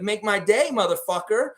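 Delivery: lightly imitated tough-guy challenge; Clint Eastwood. Fan quoting a film threat, lightly mock tough guy. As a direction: raise the pitch for a mock movie threat. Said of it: "It's kinda like Clint Eastwood".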